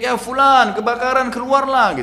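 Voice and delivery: seruan panik yang ditirukan, tinggi dan keras; teriakan tetangga. Retold or imitated. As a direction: tirukan tetangga meneriakkan peringatan kebakaran. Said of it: "Tetangganya semua teriak". (menirukan teriakan tetangga dengan nada tinggi)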